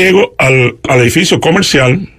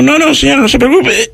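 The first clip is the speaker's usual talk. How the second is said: high, strained voice, breath held in; holding his breath; 9 semitones higher than usual. Retold or imitated. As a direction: squeeze the words out while sucking in the belly. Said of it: "inhalo bien fuerte para estar más flaco". (con la respiración aguantada, voz aguda y apretada)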